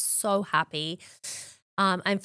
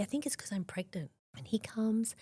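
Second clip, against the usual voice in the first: whisper; 9 dB quieter than usual. Real, not acted. Telling the host how her husband arrived, in a whisper. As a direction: voice sinks to a whisper. Emotional retelling of diagnosis.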